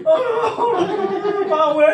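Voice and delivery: high, loud joyful yell of power; mock triumphant shout; sudden shout. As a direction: burst out yelling it. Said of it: "biglang sisigaw niya".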